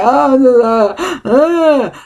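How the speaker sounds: high, halting "Oh, uh, uh" of confusion; bewildered. Retold or imitated. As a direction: sound lost and overwhelmed. Voicing her confused self.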